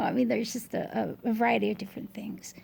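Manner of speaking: slightly winded, short of breath. Real, not acted. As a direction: talk while catching your breath. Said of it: "sorry, short of breath".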